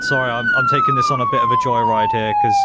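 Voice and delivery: excited. Real, not acted. Hyped joyride.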